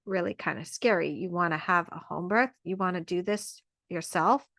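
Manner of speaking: lightly voiced doubtful partner reacting to home birth; worried partner. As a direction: voice the nervous partner hearing the plan. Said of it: "your partner might be like".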